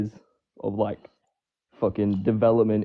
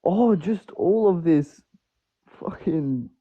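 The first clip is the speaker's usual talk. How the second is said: trying not to laugh; 6 semitones higher, much slower than usual. Real, not acted. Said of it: "what's funny".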